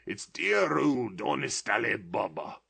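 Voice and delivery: put-on remembering childhood, near tears and laughter; a touch of tears in eager joy; between laughing and crying. A narrator's reading. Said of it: "extraordinary voice between laughing and crying".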